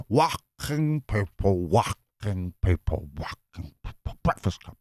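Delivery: slow, fading mock puppet chant; a hint of a mad puppet; demented Zippy voice. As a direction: drag it out like a crazed puppet, trailing away. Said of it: "sounding more demented zippy now".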